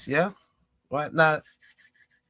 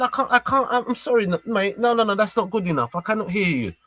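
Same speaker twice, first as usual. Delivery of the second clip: higher-pitched, stuttering dismissal; mock not hearing; 5 semitones higher than usual. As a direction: reject the feeble apology as inaudible. Rejects the inaudible apology.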